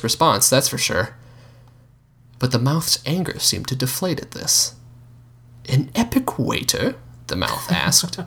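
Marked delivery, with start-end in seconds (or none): 5.7-7.0 high, disbelieving question; can't believe what he hears; incredulous. Acted. Surprised question.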